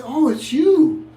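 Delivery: high, loud, slow mock admirer; mock flirty woman. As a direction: ham up her cooing reply. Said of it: "And they say".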